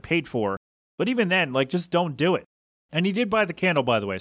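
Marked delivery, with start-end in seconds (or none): 2.9-4.2 talking through a cough; coughing between words; choking on a cough. Real, not acted. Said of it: "choking through coughs here".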